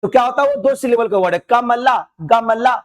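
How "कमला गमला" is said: कमला, गमला slowly, in separate syllable beats; slow down and divide कमला, गमला by syllable; broken into syllables. Shown as a demonstration. Teacher showing two-syllable words, slow syllable by syllable. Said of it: "ऐसे करके".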